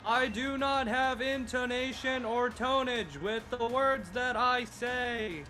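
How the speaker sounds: slow monotone robot voice. Pretend. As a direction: deliver it like a slow monotone construct. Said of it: "most monotone voice you possibly can".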